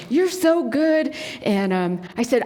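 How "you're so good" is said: put-on slow, high praise for a little kid; retold fond encouragement, drawn out; praising a toddler. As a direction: gush gently to a small child. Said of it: "I'm like".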